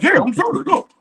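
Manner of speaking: mocking Claymore insisting he is serious, high and laughing. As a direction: squeak out Claymore's reply between laughs. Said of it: "Why you do the voice?".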